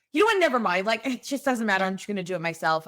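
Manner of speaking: mild mock frustration; exasperated giving up. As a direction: throw up your hands and do it yourself. Mom gives up, frustrated.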